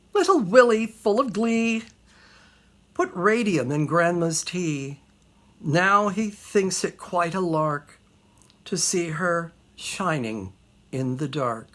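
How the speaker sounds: deadpan drop on the punchline; comic poem recital. Acted. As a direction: recite a dark ditty with mock glee.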